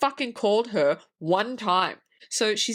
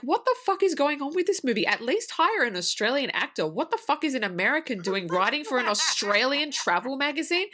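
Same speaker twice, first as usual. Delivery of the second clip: higher-pitched indignant rant; incredulous complaint, voice pushed up; exasperated disbelief; 5 semitones higher than usual. Retold or imitated. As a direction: rant in comic outrage at a lazy movie. Retells exasperated reaction to the film.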